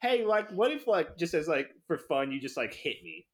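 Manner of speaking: halting, nervous laugh breaking in; nervous proposition. Acted. Cody with his college girlfriend, nervously suggesting. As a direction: stumble toward an awkward ask, laughing. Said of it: "really nervously like".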